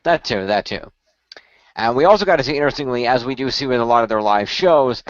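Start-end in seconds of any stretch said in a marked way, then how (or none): 0.0-0.9 whispered. Real, not acted. Agreeing aside.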